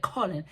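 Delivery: Colin with a long O, KOH-lin; Colin said their way. Shown as a demonstration. Vlogger trying out how they say Colin, long-O pronunciation. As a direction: round the first vowel of Colin, voice falling. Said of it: "That's how they say it".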